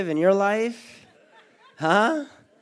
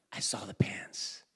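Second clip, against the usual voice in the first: awed hush; soft awed whisper at the new pants; 9 semitones lower, 9 dB quieter than usual. Retold or imitated. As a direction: breathe it out in wonder. Whispered discovery.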